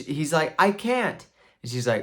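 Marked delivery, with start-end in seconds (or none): 0.6-1.3 high-pitched mock wail of protest; helpless protest. Knight admits to wife he is stuck, helpless protest.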